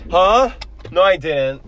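high loud mock protest; switching impression voices. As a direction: yelp it back. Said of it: "doing an impression of you".

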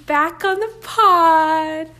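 loud and high with relief; loud, passionate podcast voice; talking loudly. Real, not acted. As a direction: let it ring out after whispering. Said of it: "I'm talking so loudly".

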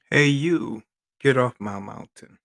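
loud playful shout; mock yell. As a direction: bark it like a grumpy hermit. Yelled jokey call.

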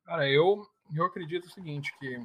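choking, words catch in the throat; choking on a drink. Real, not acted. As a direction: struggle through a swallow gone wrong. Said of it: "Desculpa, engasguei".

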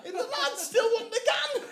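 loud, high-pitched laughing exclamation; helplessly amused and loud; incredulous laughing. Real, not acted. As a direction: cry it out through laughter. Laughing at lads' stubbornness.

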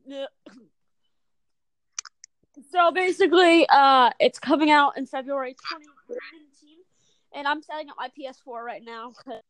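choppy glitching connection; breaking up on the call; garbled audio. Real, not acted. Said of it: "your voice was just super garbled".

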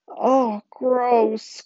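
high, drawn-out mock disgust; suppressed amusement. A narrator's reading. Connor reacts to Claire throwing up, amused disgust. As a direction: stretch it out, held high. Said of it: "obviously trying not to laugh".

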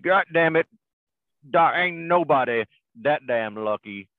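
lightly acted exasperated cowboy; high outburst easing into a slow drawl; quoting movie poker player. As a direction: imitate a sore loser, drawn out. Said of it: "Doc and Ike are playing poker".

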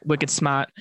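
put-on light Boston accent; a quick touch of Boston accent. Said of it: "friends from Boston".

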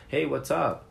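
casual greeting. Shown as a demonstration. Teacher shows students the casual native greeting. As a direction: toss it off like greeting a buddy.

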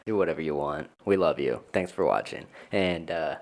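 low register all the way through; deep voice. Real, not acted. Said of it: "Why is my voice so deep?".

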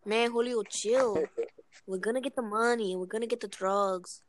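acted Latino-accented insistence; calm your partner down in a put-on Latino accent. Telling Julio they will get the money, in a put-on Latino accent. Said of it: "talk with the accent".

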